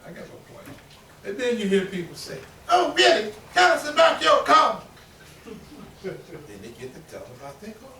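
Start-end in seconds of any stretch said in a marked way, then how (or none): 2.7-4.8 mock eager question. Mocking listeners' eager question.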